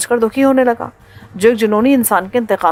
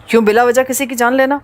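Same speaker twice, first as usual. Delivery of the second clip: deep, cold gangster voice; cold villain; 5 semitones lower than usual. Acted. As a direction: speak down to him, cold and sure. Villain John Grey speaks.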